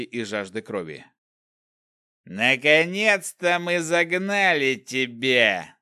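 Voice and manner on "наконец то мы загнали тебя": slow, loud, snarling growl. Acted. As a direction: growl it like a cornered beast's hunter. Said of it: "прорычал один из них".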